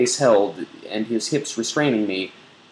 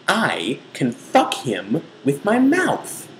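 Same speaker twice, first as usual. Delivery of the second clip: mock-sultry; 6 semitones higher, slower than usual. Mock-seductive reading.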